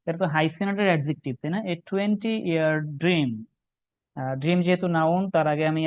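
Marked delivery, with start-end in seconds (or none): 1.6-3.3 slow read of the phrase. Shown as a demonstration. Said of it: "first reading".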